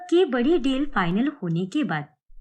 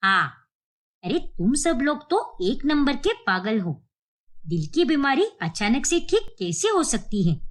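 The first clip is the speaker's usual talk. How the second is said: stern grandmother. Acted. Grandmother reveals her pretence.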